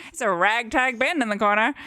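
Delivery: put-on old-time radio announcer voice; lightly voiced 1920s announcer. Shown as a demonstration. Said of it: "I get to do my nineteen twenties voice".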